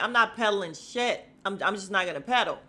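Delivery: loud, fast flat refusal; mock refusal. Me refusing to pedal on the boat, loud and fast. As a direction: blurt it out, fed up. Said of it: "I'd have been like".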